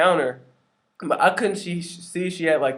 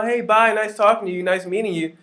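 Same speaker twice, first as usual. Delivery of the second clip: much higher and louder, happy farewell; cheery goodbye; 7 semitones higher, 3 dB louder than usual. Retold or imitated. Happy customer saying bye to the cashier, chirpy and upbeat. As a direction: chirp a bright bye at the till.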